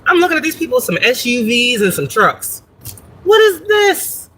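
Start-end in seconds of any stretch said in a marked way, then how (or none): 3.2-4.3 much higher, slow, drawn-out gasp of disbelief; mock astonishment. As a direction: stretch it out like you can't believe your eyes. Shocked at huge trucks.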